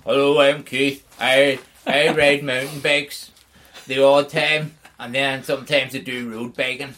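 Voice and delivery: mock Keith, dry and unhurried; imitating Keith. Host imitates absent co-host Keith, mild impression. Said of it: "This is our Keith".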